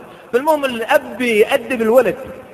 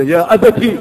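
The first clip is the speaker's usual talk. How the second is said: نداء الابن لأبيه; 8 dB louder, slower than usual. Pretend. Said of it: "كان يقول له ولده".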